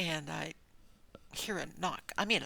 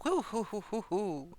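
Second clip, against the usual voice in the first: spirit exclamation; 4 semitones higher than usual. Real, not acted. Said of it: "Oh, I feel".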